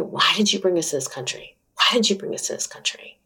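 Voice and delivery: soft, half-whispered imitation of a weeping mother; a touch of a crying mother, quiet and airy; retold crying. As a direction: mildly mimic her mother's tearful plea, hushed and breathless. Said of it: "my mother is just crying".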